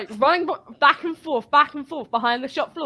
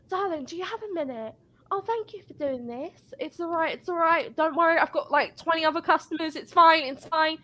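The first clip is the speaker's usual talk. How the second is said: mock the patronising customer, pitched up; sugary customer voice; 5 semitones higher than usual. Pitched-up mock of a patronising customer brushing off the cashier.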